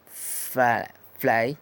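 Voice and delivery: "fly" after a long isolated F; F sound demo. Shown as a demonstration. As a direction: stretch the F, then say "fly". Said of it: "la F de fly".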